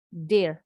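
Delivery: Dear said short, close to "dehr"; a brief, firm Dear with a lax vowel. Shown as a demonstration. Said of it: "bunyinya pendek". (Dear dengan bunyi I pendek)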